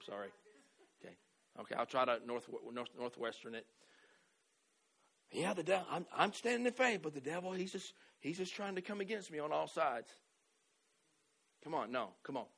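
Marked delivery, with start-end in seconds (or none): 5.3-10.1 mopey complaining believer. Retold or imitated. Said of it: "Faith doesn't talk like that".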